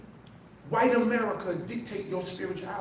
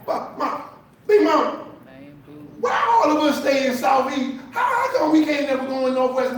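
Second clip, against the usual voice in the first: put-on child asking big mama; 3 semitones higher, 3 dB louder than usual. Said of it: "child voice asking big mama".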